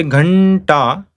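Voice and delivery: Ghanta drawn out on the n; Ghanta, retroflex n into ta; retroflex anuswara. Shown as a demonstration. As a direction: hold the curled-tongue n in Ghanta. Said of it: "naturally the N, N comes".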